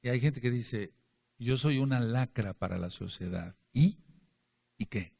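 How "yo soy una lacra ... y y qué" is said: mock defiant boast. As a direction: taunt them, chin up, daring anyone to object. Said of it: "Ellos así, retando". (desafiante, retador)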